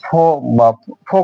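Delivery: "ফো" with no r at the end; silent final R. Shown as a demonstration. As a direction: end "ফো" on an open o. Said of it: "এই ফোর এর উচ্চারণ".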